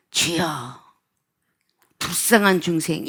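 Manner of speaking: low, soft muttered plea to the Lord; hushed prayer. Acted. Christian customer praying over a grumbling clerk, hushed and low. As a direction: pray it quietly under your breath. Sighed prayer instead of anger.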